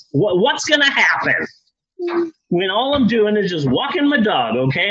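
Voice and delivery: a mildly hammed-up king insisting on his rights; indignant king. King argues with castle guards.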